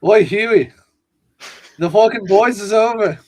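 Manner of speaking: rough go at Butcher, punched loud; Butcher impression. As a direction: bark it out as a badly imitated Butcher. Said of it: "Butcher impression".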